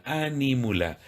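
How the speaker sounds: "Ánímula" with the stress on the first A, ÁN-i-mu-la, like an esdrújula. Shown as a demonstration. Priest teaching viewers the word, first A stressed. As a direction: lean on the opening Á of "Ánímula". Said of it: "con acento en la A, como esdrújula".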